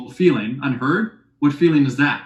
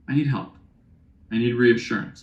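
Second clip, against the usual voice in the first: vulnerable ask; 3 semitones lower, 3 dB quieter than usual. Shown as a demonstration. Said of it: "It's vulnerable".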